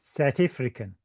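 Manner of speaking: lightly put-on South African accent. Shown as a demonstration. Answering her complaint about the accent, mild South African accent. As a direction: clip the vowels into mock South African. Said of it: "most horrific South African accent ever".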